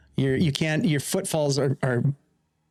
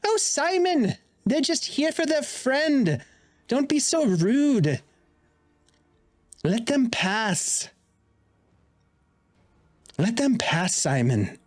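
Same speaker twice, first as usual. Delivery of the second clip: much higher crone voice, chiding; old hag; 9 semitones higher than usual. Acted. Hag inside scolding the golem Simon, high and crooning.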